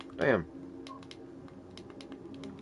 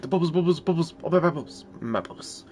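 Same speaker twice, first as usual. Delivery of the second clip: lightly higher mock-dreamy cat voice; a touch of a dreamy fish about its bubbles; voicing the cat; 6 semitones higher than usual. Owner voices the cat loving water bubbles, lightly higher. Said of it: "where he's all like".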